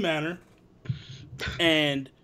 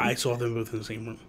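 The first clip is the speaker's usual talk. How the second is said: hushed conspiratorial whisper; 6 semitones lower, 4 dB quieter, faster than usual. Real, not acted. Whispering to Fiona about the secret meeting, hushed. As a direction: breathe it like a secret. Gossiping about Spider-Man sighting.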